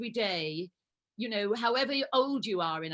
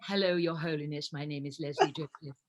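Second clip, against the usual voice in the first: retold greeting in a lower, nervous voice; imitating her own nervous low voice meeting the Pope; voice went down; 3 semitones lower than usual. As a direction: drop the voice low and formal, a touch awestruck. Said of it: "my voice went down terribly".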